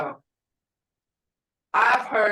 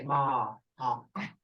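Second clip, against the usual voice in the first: put-on little girl warning; 8 semitones lower, 5 dB quieter, slower than usual. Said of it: "that ma means look out".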